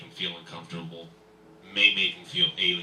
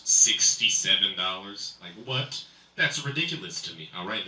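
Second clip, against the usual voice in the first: ordinary talk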